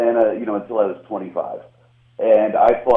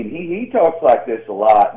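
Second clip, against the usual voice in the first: imitating a Kentucky comedian's Southern accent; thick Southern accent; 2 semitones higher, 3 dB louder than usual. Comedian describing a fellow comic, imitated Southern accent. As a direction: put on a thick Southern twang. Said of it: "he's got that thick Southern accent".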